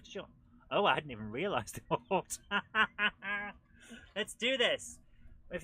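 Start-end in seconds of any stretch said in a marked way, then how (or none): 4.1-5.0 excited. Real, not acted. Pumped up to start level.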